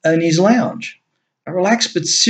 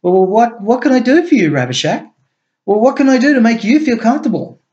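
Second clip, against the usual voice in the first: nervous high stammer, rushing; 7 semitones higher, 3 dB louder, faster than usual. A narrator's reading. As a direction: stumble over the words. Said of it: "He stammered".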